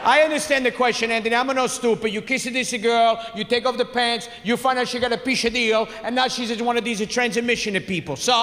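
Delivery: lightly voiced insistent father; father impression. Father insists he understood the question, mildly indignant. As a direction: imitate a father explaining with mild indignation. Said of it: "My father jumps out".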